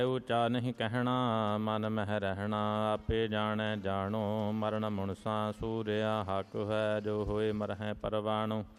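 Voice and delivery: steady, measured chant of sacred verse; devotional hymn recitation. Real, not acted. Devotee recites Gurbani verses to the congregation, in a measured chant. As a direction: recite each line like a prayer, evenly paced.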